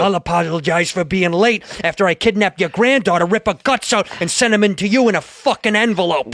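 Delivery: mock tough-guy threats in a staged scene; acted movie scene. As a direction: play the gangster scene half-seriously. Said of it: "Is that a good scene?".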